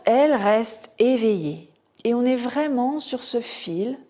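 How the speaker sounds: measured Yoga Nidra guidance with long pauses; guided relaxation. Acted. Teacher guiding students into Yoga Nidra, measured meditation voice.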